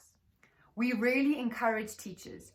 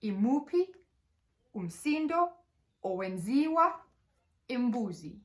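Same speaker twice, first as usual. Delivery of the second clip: put-on reading a story to children. Shown as a demonstration. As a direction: lively question to a class, rising at the end. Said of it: "Here we created a story".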